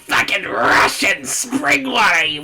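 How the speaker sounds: mock shout. Streamer heckling the water-loving judge on screen, mock shout. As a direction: bellow it like a rowdy heckler.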